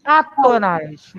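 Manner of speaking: átonas slowly, first syllable stressed; corrected pronunciation. Shown as a demonstration. Teacher corrects pupil's atônica, slow careful pronunciation of "Átonas". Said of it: "Sílabas átonas".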